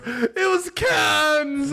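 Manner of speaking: high, drawn-out mock shout; Keanu Reeves. Podcaster acting the hero calling back from the bus, mock shout. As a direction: stretch it out in a high, hammed-up yell. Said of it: "Keanu Reeves looks back and goes".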